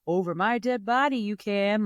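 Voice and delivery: lightly imitated Boston accent; mild mock-Boston lilt. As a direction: have a go at sounding Bostonian. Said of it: "my Boston accent".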